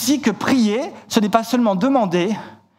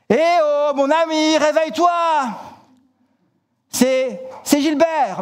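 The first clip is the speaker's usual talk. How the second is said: calling up high at a shuttered window; hammed-up shout to wake a sleeper; raised, calling voice, partly held back; mock shout; 5 semitones higher than usual. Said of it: "son ami qui crie".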